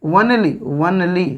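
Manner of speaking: वनली said slowly as wun-lee; वनली opening with w, repeated for learners; w sound. Shown as a demonstration. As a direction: draw out वनली in two parts, one plus lee. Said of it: "इधर व पढ़ा जाता है".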